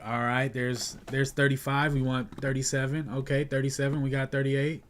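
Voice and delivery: fast, pushy auctioneer calling prices. Retold or imitated. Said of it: "Sound like an auctioneer".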